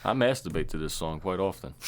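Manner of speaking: ordinary talk, nothing marked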